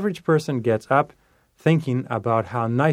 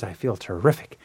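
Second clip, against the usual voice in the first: repeated affirmation, lifting on "terrific"; mean it a little more each time; enthusiastic affirmation; 2 semitones lower than usual. Shown as a demonstration. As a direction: say it with feeling, building in pitch. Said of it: "say it with feeling".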